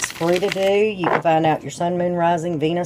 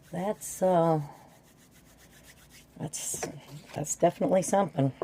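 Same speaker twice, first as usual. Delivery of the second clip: hushed awe; 9 dB quieter than usual. Real, not acted. Reacting to three nines.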